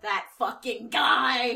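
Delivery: slow, laughing through it. Real, not acted. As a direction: chuckle it out. Laughing about a character.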